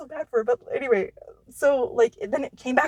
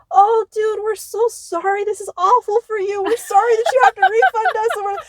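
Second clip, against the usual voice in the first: high, louder, caring voices; compassionate crowd; 10 semitones higher, 5 dB louder than usual. Retold or imitated. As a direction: sound sweetly concerned for the manager. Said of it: "the most compassionate human being".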